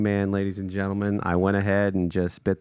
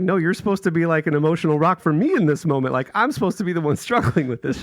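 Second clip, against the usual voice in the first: mock protest; 8 semitones higher, faster than usual. Protesting to wife while retelling.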